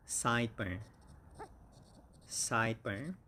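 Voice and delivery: "Sideburn" stressed SIDE-burn; "Sideburn" with SIDE strong, burn light. Shown as a demonstration. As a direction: lean on the first syllable of "Sideburn". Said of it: "the stress is on the first syllable".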